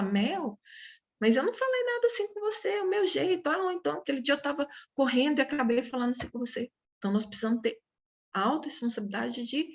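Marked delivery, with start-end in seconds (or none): 0.0-6.7 quick, higher defensive reply; friend Cibele replying. Retold or imitated. Friend answering Mel that it's just her way, quick and higher. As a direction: brush it off fast, a bit higher. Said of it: "ela vai ter a oportunidade de falar".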